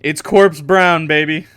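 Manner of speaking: slow, loud, drawn-out zombie come-on; hammed-up undead charm; zombie purr. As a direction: lay it on thick like a rotting lover. Zombie flirting in corpse voice.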